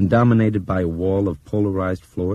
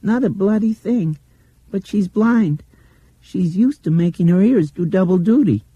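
put-on high, louder child voice parroting a man; mimicking; 7 dB louder than usual. A narrator's reading. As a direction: throw the whispered words back at them. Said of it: "she mimicked".

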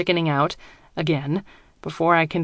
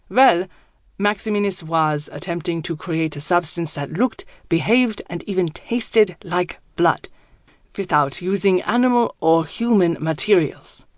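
put-on German accent. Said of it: "His accent is thick, German".

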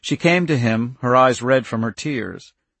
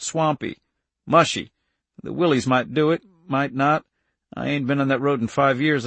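lightly voiced helper, somewhat higher; Irv giving directions; 4 semitones higher than usual. Irv directing Andy toward Vermont, lightly voiced helper. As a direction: lay out the route in a slightly raised pitch.

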